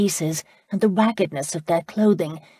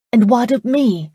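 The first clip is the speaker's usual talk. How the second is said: loud, bold and high-pitched challenge; bold question; 6 semitones higher, 8 dB louder than usual. A narrator's reading. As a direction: Charlotte boldly demands to know her own fate, loud and high. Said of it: "Charlotte boldly asked".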